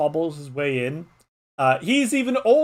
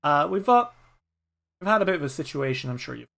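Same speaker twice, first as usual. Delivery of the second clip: an old postman edging into bad news with apologies; Kieran the old postman; faster than usual.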